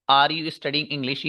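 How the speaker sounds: slow, word-by-word "Are you studying English?" while writing on the board; slow dictation. Shown as a demonstration. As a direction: dictate each word slowly for the class. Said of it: "ये असल में मालूम है क्या है?". (Board पर लिखते हुए धीरे-धीरे बोलना)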